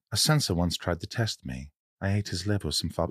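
lightly voiced sinister film villain; Hannibal Lecter. Showing off a learned film monologue, lightly voiced villain. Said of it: "I remember learning Hannibal Lecter's".

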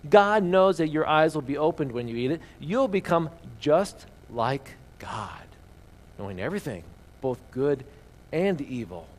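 reading the Bible passage aloud to the congregation; reading scripture to the church. Acted. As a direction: give the verses a storyteller's lift.

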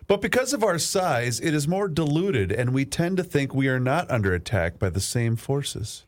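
reading the dictation back. Shown as a demonstration. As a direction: read it back to check it. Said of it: "read it back to me".

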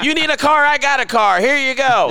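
high, hammed-up car huckster; old commercial pitchman. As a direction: sell it like an old TV ad. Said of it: "in an old black and white commercial".

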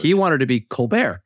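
"Colbert" said the French way, col-BEAR; French "Colbert", silent t, stress on the end; French pronunciation. Shown as a demonstration. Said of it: "so French pronunciation of the name".

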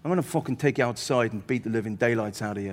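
put-on fast, lightly Irish-accented threat; Irish heckler. Irish heckler warning the comic offstage, Irish-accented menace. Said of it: "this Irish guy".

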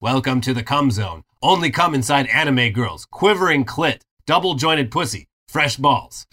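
flat robotic voice. Retold or imitated. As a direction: read it like a robot. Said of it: "a robotic voice saying".

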